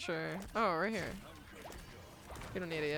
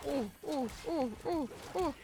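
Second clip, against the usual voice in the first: excited urging; 5 semitones higher, faster than usual. Real, not acted. Urging teammates.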